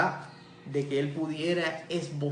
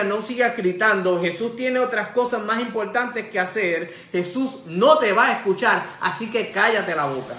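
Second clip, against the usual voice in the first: forceful, raised rebuke; scolding; 3 semitones higher, 4 dB louder than usual. Retold or imitated. Crowd tells the blind man to stop, scolding. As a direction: scold someone into silence. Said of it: "le reprendían para que se callase".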